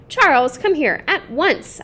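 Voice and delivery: a mother calling her son, slow and firm; stern summons. Acted. Mother calling Charles away from the rough child, slow stern call.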